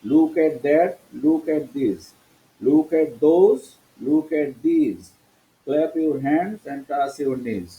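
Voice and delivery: "that, this, those, these" with th as a clear দ; teacher's demo, "those" and "these" starting with দ. Shown as a demonstration. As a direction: model "that" and "this" with a d sound. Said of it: "টিএইচ এর উচ্চারণ সব দ হলো".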